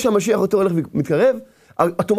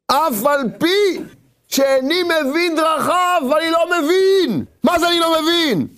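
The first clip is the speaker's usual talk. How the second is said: emphatic declaration of faith; 3 semitones higher than usual. Acted. Abraham insisting he will do his part, emphatic declaration. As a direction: proclaim each phrase with firm conviction.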